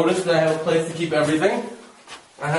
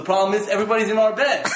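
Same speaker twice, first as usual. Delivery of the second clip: laughing disbelief; 5 semitones higher, faster than usual. Retold or imitated. Retelling the crowded room, laughing.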